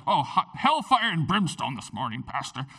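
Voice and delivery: mocking a churchgoer, laughing through it; laughing mock complaint. Pastor mimics congregant grumbling about hellfire, laughing. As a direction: tease the grumbling listener while chuckling. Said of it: "the message is always like".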